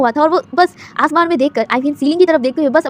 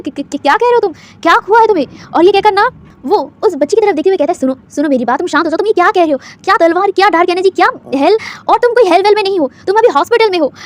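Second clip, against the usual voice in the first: confused doctor; 3 semitones higher, 6 dB louder than usual. Acted. Doctor confused, pleads calm.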